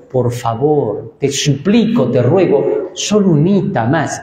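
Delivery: a lightly voiced tearful plea; begging tearfully. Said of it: "Y llora".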